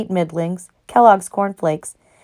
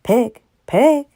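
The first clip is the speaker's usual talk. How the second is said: kind voice; 6 semitones higher than usual. A narrator's reading. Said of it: "in a kind voice".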